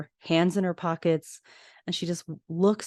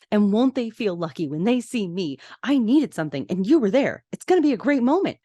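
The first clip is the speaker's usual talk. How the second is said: rising higher and louder into hammed-up glee; mock enthusiasm; 4 semitones higher, 4 dB louder than usual. Retelling Lorelai joking to her mother, mock excited. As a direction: oversell it, building to a loud high finish. Lorelai's sarcastic hospital pep talk.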